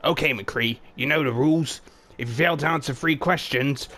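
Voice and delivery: half-hearted quiz host patter; Junkrat voice. Acted. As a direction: Junkrat laying out the quiz rules to McCree.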